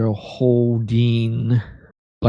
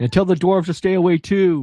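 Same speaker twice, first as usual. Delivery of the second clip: high, piercing, yelling creature voices; 7 semitones higher than usual. Narrating for the players, voice the creatures they drove away: shouting creatures. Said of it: "you hear shouting".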